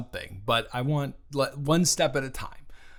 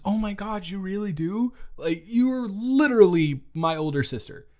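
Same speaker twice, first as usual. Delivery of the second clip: higher, breathless imitation of the sister's gush; mock gushing sister; 8 semitones higher than usual. Big sibling mimicking little sister's gushing reply. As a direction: parrot her excited words back in a sing-song.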